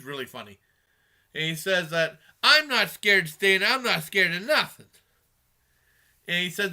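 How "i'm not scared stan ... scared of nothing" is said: louder, mock-defiant movie quote; emphatic retold bravado; defiant boast. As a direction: imitate someone insisting they're not afraid. Retells character's defiant boast.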